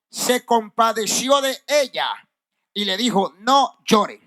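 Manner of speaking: measured Bible reading with deliberate pauses; scripture reading. Acted. Preacher reads of the widow's son to the congregation, measured scripture reading. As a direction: read the verse out phrase by phrase.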